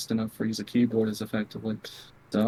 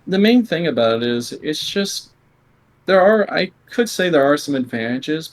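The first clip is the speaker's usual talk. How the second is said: real speaking up, louder and fuller; 2 semitones higher, 6 dB louder than usual. Real, not acted. Player speaking up for the interviewer after apologising for whispering, louder. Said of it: "sorry, I'm just gonna speak".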